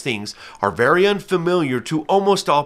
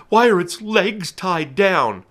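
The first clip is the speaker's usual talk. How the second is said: puzzled onlooker; 6 semitones higher, slower than usual. Retold or imitated. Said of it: "you're like".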